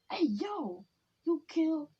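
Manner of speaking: high, stammering mock amazement; amazed stutter. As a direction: stumble over the words in shock. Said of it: "he's stuttering 'cause he, he's amazed".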